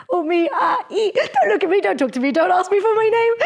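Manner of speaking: high, laughing panicky protest; shy audience member. Retold or imitated. Shy audience member begging the speaker not to pick them, laughing panic. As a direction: squeal it like someone dreading being picked. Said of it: "you were like".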